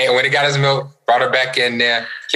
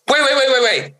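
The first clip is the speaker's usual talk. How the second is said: very high, rapid-fire pleading; imitated panicked child; 14 semitones higher, faster than usual. Dad mimics his son stopping him leaving, frantic. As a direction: mimic a little kid frantically calling someone back.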